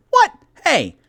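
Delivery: loud affronted retort, retold; playful offended outburst; mock indignation. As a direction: blurt it out like an offended kid. Retold childhood indignation at teacher.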